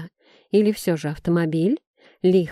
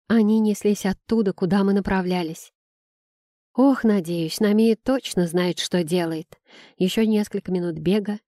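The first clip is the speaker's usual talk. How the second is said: plain reading voice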